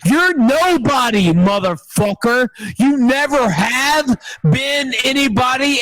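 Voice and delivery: heated callout of a chat troll; angry rant. Real, not acted. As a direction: tear into him, mock-furious. Ranting at chat troll Shoot Blue.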